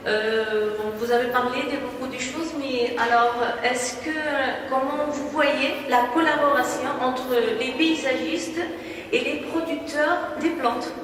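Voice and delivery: halting non-native French accent; hesitant French with a foreign accent; broken French. Real, not acted. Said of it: "Je parle un peu français".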